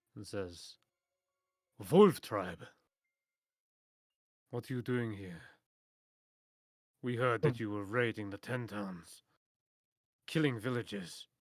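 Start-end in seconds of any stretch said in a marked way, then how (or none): 1.9-11.2 authoritative, firm, commanding tone. A game narrator voices a tribe member confronting the wolf tribe: commanding voice. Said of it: "kind of like commanding voice".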